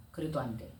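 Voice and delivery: low, soft dismissal; hushed, firm exorcist's command; quiet command. Retold or imitated. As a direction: order it out quietly, without raising the voice. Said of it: "조용히 말해도".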